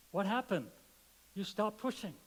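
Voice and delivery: voice of God. Pretend. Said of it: "the voice comes back and says".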